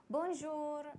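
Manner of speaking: lightly imitated French customs agent; French accent. Customs agent greets the pilot, imitated French accent. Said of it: "thick accent, comes up and says".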